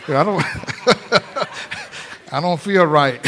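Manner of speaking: real laughter breaking the words; preacher laughing mid-sermon. Real, not acted. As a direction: laugh through it. Preacher laughing at own joke.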